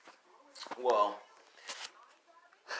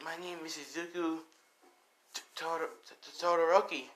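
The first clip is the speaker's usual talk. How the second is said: put-on higher boy's voice, stammering on the surname; timid young boy; 4 semitones higher than usual. Young boy introducing himself to the elders, timid and stammering. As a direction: stumble lightly over your own name.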